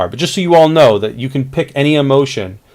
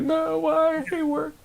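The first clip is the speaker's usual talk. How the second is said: annoyed outburst; 11 dB quieter, slower than usual. Shown as a demonstration. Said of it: "you're gonna be like".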